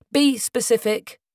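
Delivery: slow, sharp barked command; barked order. Acted. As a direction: bark it at him, each word firm. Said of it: "she barked".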